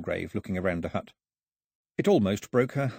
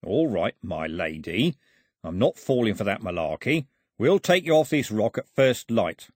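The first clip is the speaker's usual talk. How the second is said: menacing crook; 3 semitones higher, 3 dB louder than usual. Acted. Voices Foxlip threatening the girl.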